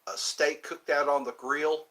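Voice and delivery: lightly put-on southern accent. Shown as a demonstration. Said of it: "I can do the southern accent all day long".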